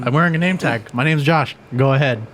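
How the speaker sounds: cocky employee daring a customer; mock taunting offer. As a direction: dare them to call, cocky. Continues mock dare.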